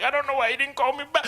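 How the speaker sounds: mock French girl whine. Comic retelling the movie's French girl, mock whine.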